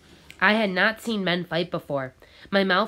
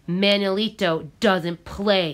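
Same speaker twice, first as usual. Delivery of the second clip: louder, slow, stressed yell; 2 semitones higher, 5 dB louder, slower than usual. Acted. Carlos yells at the boy that Manuelito can't play. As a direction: lay down the rule angrily. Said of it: "he yelled".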